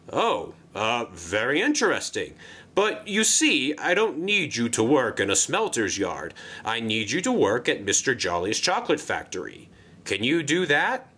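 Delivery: a jolly controller pitching a job; Sir Topham Hatt voice. Acted. Sir Topham Hatt redirects Sixteen.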